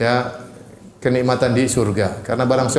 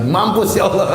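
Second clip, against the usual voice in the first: laughing mock curse; 6 semitones higher than usual.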